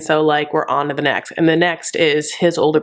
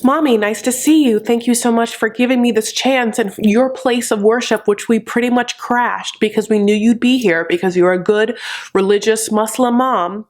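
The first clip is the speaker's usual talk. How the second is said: mock polite greeting; 4 semitones higher than usual. A lightly voiced ideal Lisa greeting Usman's mom, overly polite. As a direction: gush with exaggerated courtesy.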